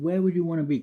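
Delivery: put-on German-accented dad. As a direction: imitate Dad asking in his German accent. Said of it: "his dad had a German accent still".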